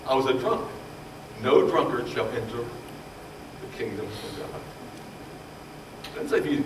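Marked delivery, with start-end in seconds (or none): 1.4-4.6 slow, low, grave reading of the verse; solemn scripture quote. Shown as a demonstration. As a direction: read it slowly like holy writ. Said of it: "quoting scripture".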